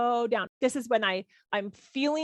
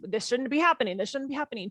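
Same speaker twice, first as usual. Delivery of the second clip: resisting; 2 semitones higher than usual. Shown as a demonstration. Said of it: "when I hijack my default rhythm".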